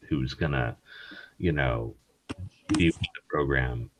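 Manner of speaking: talking through hiccups; hiccuping. Real, not acted. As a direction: hiccups breaking up the words. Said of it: "Are you hiccuping 'cause you're so drunk?".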